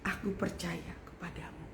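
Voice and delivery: soft whispered prayer of trust. Retold or imitated. Preacher retells his bedtime prayer, in a whisper. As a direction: breathe the words to God. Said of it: "Saya cuma ngomong begini sama Tuhan".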